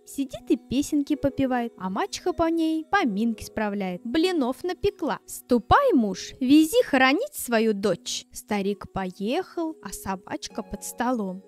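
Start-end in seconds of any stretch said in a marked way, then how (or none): 5.3-8.3 stepmother's order. Acted.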